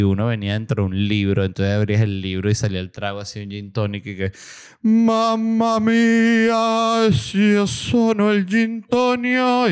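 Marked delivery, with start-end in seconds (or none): 4.8-9.7 high, loud, very slow drawn-out put-on voice; theatrical "Mamma mía", stretched way out and much higher; mock Italian exclamation. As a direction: ham up an Italian-style gush over the drink. Mock bartender praising gin tonic.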